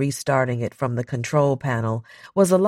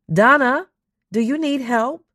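higher, louder, rising alarmed call; urgent call; 12 semitones higher, 5 dB louder than usual. Acted. Crew member shouting to silent Donna over radio, urgent and alarmed. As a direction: raise the alarm as she stays silent.

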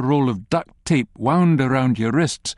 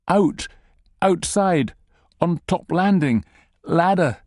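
higher, broken terrified fragments; pitched-up frightened gasps; panicked; 5 semitones higher than usual. Acted. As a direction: blurt each word in fear. Terrified captive blurts directions.

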